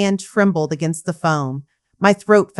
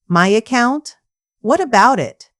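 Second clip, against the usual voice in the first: alarmed question; 5 semitones higher than usual. Acted. Alarmed mother questions banker.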